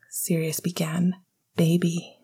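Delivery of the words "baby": breathless pet name; hushed breathless endearment. Acted. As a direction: say it out of breath with longing. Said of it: "Remus said breathlessly".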